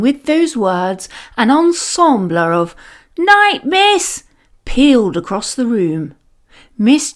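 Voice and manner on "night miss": put-on high, bright chorus of kids; children's chorus. A narrator's reading. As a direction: call out together like a class of kids. Ensemble of children.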